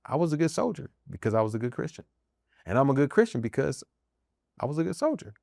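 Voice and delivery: understated, humble assertion; without arrogance. Real, not acted. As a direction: say it again softly, no boasting. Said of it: "Not saying it with the ounce of arrogance".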